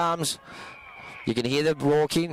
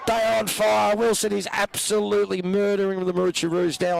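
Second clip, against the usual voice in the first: excited commentary; 6 semitones higher than usual. Real, not acted. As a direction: ride the thrill of the goal. Goal call, commentator on fire.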